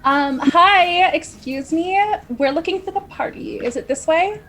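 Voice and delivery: calling out. Acted. Player calls out to approaching figure.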